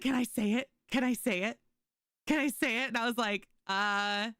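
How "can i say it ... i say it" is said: excited, higher and louder pleading; a grandma bursting to say the word; eager grandma. Retold or imitated. Grandma begging permission to call Gino poop face, excited. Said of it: "she gasps, she's like".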